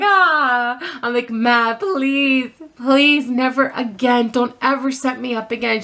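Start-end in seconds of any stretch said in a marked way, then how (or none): 0.0-0.8 high, drawn-out mock sob; hammed-up cry of relief; mock relieved wail. Storyteller imitates her crying after the call, mock relieved wail. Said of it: "I started crying". 1.3-5.8 tearful pleading. Retold or imitated. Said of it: "I started crying".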